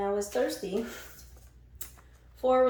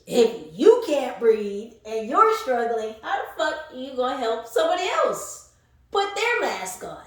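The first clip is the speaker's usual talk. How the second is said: exasperated; 3 semitones higher, 6 dB louder than usual. Real, not acted. Tarot reader scolding the viewer, loud and exasperated. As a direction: push it, how could you possibly help.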